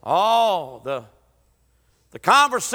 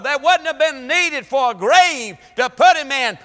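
full-force preaching. Acted. Preacher proclaiming victory to the church, full force. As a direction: drive it home to the congregation.

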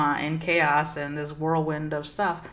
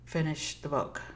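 inner guidance voice; 7 dB quieter than usual. Retold or imitated. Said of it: "And I clearly heard".

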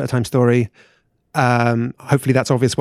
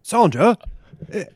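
high flustered voice; 5 semitones higher than usual. Acted. Wife spotting embrace on mountaintop.

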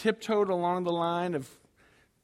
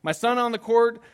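much higher and louder frustrated rant; 6 semitones higher, 7 dB louder than usual. Retold or imitated. Pastor retelling his frustrated inner rant about gas and the game. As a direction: vent self-centered panic. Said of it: "I'm just getting frustrated".

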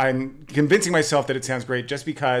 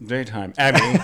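mock-grand title; 4 dB louder than usual. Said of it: "you almost don't wanna say it's like".

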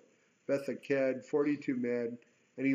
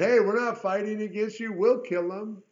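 acted defiance; 6 semitones higher, 5 dB louder than usual. Voices the defiant men who opposed Jehu.

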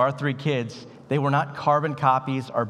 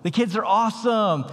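fake cheerful front; 6 semitones higher than usual. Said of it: "Put on the face".

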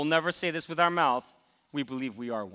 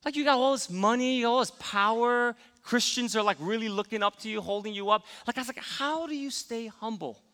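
curious question; 4 semitones higher than usual. Retold or imitated. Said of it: "I said".

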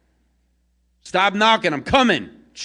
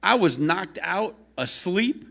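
much higher and louder, indignant yelling; angry rant; 12 semitones higher, 6 dB louder than usual. Acted. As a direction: scold her for waking him. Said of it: "The angry man inside is like".

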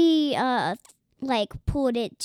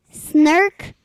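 mock snort; 4 semitones higher, 10 dB louder than usual. Shown as a demonstration. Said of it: "can you say that again".

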